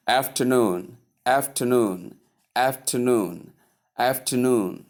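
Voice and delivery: afternoon as af-tuh-NOON, middle softened; last-syllable stress. Shown as a demonstration. Teacher repeating the word for learners, last-syllable stress. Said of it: "Stress on the last syllable".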